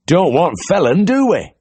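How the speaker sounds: cheery high farmer's voice; bright, keen country caller; eager Yorkshire farmer. A narrator's reading. Farmer at the door, cheerfully asking for the vet. Farmer worrying about the cow.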